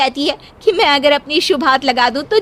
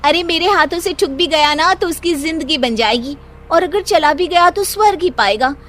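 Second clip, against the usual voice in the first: boastful brag; 4 semitones higher than usual. Acted. Sheena brags to manager.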